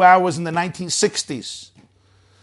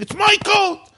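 high-pitched yelled claim; son's mock scream, pitched way up; retold scream; 14 semitones higher than usual. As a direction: yell back high, like a squabbling son. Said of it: "The son was screaming".

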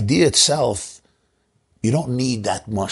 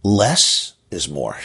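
wife's advice; much slower than usual. Retold or imitated. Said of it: "As my wife always tells me".

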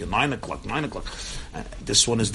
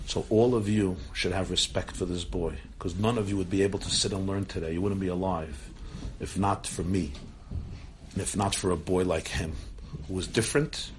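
retold solemn rebuke; 2 semitones lower, 3 dB quieter than usual. Grandfather's solemn defence of boy.

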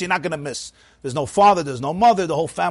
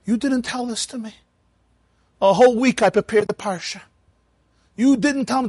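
put-on high, aggrieved protest from an old Torah reader; indignant old man; 8 semitones higher than usual. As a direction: complain that nobody told you, pitched up. Old Moshe protests to gabbai.

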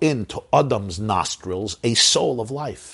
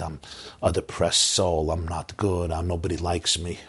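dejected self-talk; 3 semitones lower than usual. Retold or imitated. Voicing inner self-condemning thoughts.

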